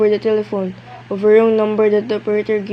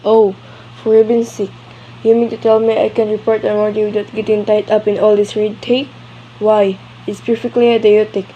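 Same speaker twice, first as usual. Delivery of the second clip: exasperated outburst; 5 dB louder than usual. Acted. Annoyed wife fed up with bureaucracy.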